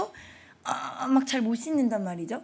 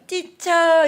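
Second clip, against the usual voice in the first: put-on high, loud child's call; 6 semitones higher, 9 dB louder, much slower than usual. Five-year-old running to teacher, calling loudly.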